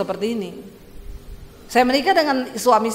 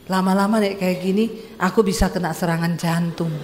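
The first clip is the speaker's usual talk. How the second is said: long-suffering husband; 4 semitones lower than usual. Acted. Husband complains to loud wife.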